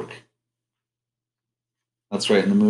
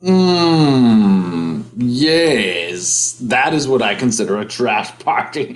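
Barry; 5 dB louder, slower than usual. Pretend. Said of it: "his name is Barry".

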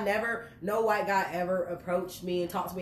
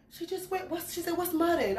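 imitating mom; 7 semitones higher, 4 dB quieter than usual. Voices mom reacting to mudding.

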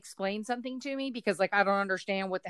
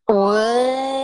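mock surprise; 11 dB louder than usual. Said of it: "I was like".

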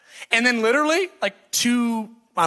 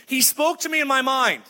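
lightly imitated child, pitched higher; matter-of-fact kid; 5 semitones higher than usual. Kid answers how God spoke, lightly imitated child. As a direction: answer simply like a small kid. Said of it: "It's funny that kids, you ask them".

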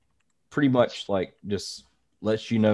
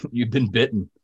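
laughing; 3 semitones higher than usual. Real, not acted. Laughing at bitten friend.

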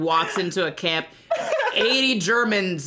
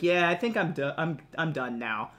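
soft, low, fading mock weariness; tired old man; 5 semitones lower, 6 dB quieter than usual. Old Leo telling the Grim Reaper he's ready, fading. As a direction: let it trail off, done with life.

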